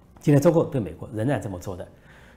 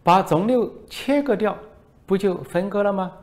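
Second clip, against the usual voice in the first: high, put-on voice of a foreign reporter; mocking reporter voice; 10 semitones higher, 6 dB louder than usual. Foreign reporter needles the minister, high mocking voice. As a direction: play a sly foreign reporter, pitched up. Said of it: "外国记者说".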